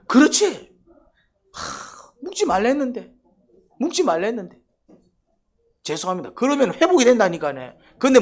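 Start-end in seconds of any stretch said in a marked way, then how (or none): 0.1-6.3 acted confession. Adam answering God, sighing confession. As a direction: play Adam admitting his sin.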